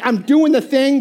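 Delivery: mock sulky compliance; with attitude. Husband sulking while doing dishes, grudging. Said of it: "he's doing it with attitude".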